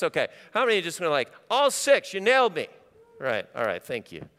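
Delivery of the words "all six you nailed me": mock confession. Congregant admitting all six faults.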